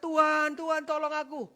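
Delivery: high, loud plea to the Lord; loud, urgent retold cry; crying out for help. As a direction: shout it like drowning men calling for rescue. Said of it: "mereka teriak-teriak".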